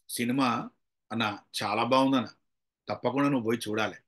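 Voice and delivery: mild, easygoing recommendation at home; pleasant telling. Shown as a demonstration. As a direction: recommend it pleasantly over a family meal.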